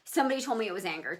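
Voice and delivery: ordinary talk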